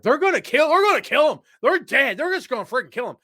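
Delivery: put-on high, loud panicked child voice; imitating his younger self in mock panic; terrified kid. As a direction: cry it out like a scared kid watching the cage match. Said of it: "I was like".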